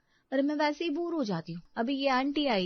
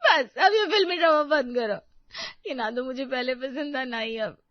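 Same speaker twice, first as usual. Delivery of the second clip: tearful; 6 dB louder than usual. Acted. Tearful wife snaps at husband.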